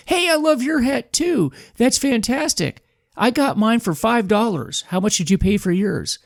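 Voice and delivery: put-on high, eager kid voice; young boy's voice. Man voicing the boy in the MAGA hat, high kid voice. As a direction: pitch way up like an excited ten-year-old.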